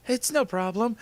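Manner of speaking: high, smiling character voice. A narrator's reading. Girl forgiving the bump, smiling voice. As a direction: brush it off with a smile, high-pitched.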